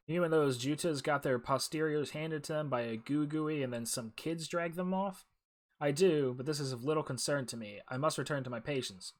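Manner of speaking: lightly acted exchange between game characters; clear, measured character reading; game dialogue read-aloud. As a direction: read both sides of the dialogue with some urgency.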